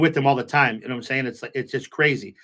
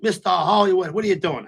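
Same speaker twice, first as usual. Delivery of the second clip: friendly call-out; 5 semitones higher than usual. Retold or imitated. Friend calls out to him.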